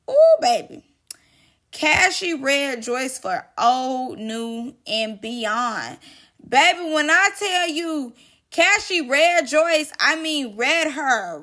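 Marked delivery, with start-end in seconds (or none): 0.1-0.8 high, loud excited squeal; excited ooh. Real, not acted. Gossiping to viewers, squealing with excitement. 6.5-11.4 higher, louder, drawn-out hype; excited hype. Real, not acted. Telling viewers the tea, loud thrilled hype.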